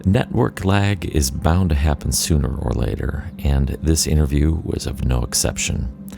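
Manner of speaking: measured, polished host read; scripted podcast intro. Acted. Host welcomes listeners to Ambient Discourses, scripted intro read. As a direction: introduce the show from a prepared script.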